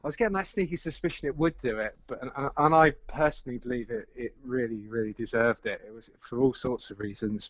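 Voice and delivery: out of breath from running around; breathless, catching air between words. Real, not acted. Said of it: "I'm sorry, a bit out of breath".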